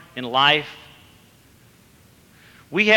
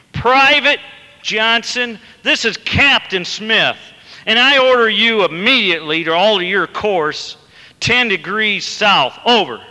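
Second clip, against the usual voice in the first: high, loud shout over the radio; shouting captain; 6 semitones higher, 4 dB louder than usual. A narrator's reading. Captain shouting at the private over the radio. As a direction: bark the order, furious and loud. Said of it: "the captain shouted back over the radio".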